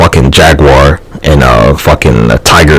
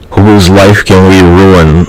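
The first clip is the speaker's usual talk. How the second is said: mock scheming; 4 semitones higher, much slower than usual. Voicing the others' default.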